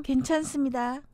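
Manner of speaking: even standard Korean; 표준어. Shown as a demonstration. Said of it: "표준어". (담담한 표준어 말투)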